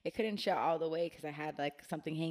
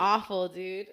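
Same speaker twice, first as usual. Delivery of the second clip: louder, much higher burst of laughter; laughing; 9 semitones higher, 18 dB louder than usual. Real, not acted. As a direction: crack up while telling it. Laughing at her own story.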